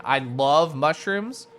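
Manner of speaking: gushing. Real, not acted. Gushing over mushrooms.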